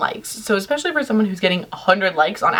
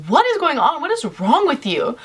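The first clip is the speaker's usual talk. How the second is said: higher-pitched mock exasperation; baffled demand; 6 semitones higher than usual. Two friends questioning her odd behavior, mock baffled. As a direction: imitate friends demanding an explanation.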